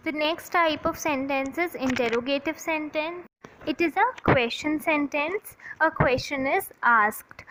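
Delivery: slow, deliberate dictation pace. Acted. Teacher dictating a definition to her class, slow and deliberate. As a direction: spell it out slowly for students to copy.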